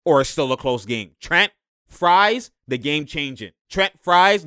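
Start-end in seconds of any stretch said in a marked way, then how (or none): 1.2-2.5 emphatic hype. Real, not acted. Hyping a teammate's scoring run. 3.7-4.4 emphatic hype. Real, not acted. Hyping a teammate's scoring run.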